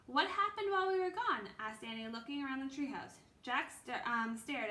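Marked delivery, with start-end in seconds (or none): 0.1-1.5 excited. A narrator's reading. Annie eager question.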